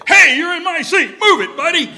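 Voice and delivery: high, loud mock bark at a seat taker; mock seat hog. Pastor mocking a churchgoer who lost his seat, loud mock bark. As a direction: ham up a grumpy pew owner.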